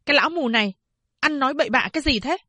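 put-on Phán Đệ angrily cutting off the blind old man; angry scolding. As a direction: snap at the old man, fast. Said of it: "Phán đệ giận dữ quát".

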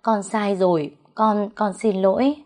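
put-on understated tearful servant girl; tearful pleading. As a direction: beg for mercy with a touch of crying. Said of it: "Nó bị bà đánh thì khóc lóc nói".

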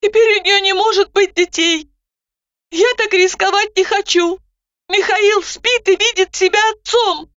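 put-on high, anxious young woman; doubting, nervous retort; Zhanna, anxious. A narrator's reading. Zhanna continues.

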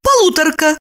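high precise correction; high, prim clarifying; high-voiced mild correction; correcting. A narrator's reading. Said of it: "уточнила Липочка".

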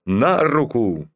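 slow, drawn-out drill command; slow parade-ground command. Acted. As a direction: bark the order across the parade ground.

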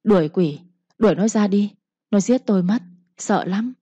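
lightly voiced madwoman begging them to drive out the demon; mild frightened plea. Madwoman points at her sister, mildly frightened plea. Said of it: "sợ hãi nói".

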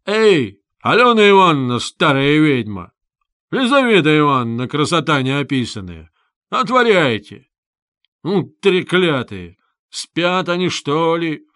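loud impatient calls through the door; shouting. Acted. Visitor yells at the old women behind the door, shouting. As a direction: hammer them with your voice, fed up.

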